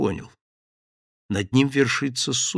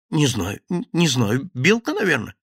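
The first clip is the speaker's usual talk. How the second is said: stammering fear; 3 semitones higher than usual. Acted.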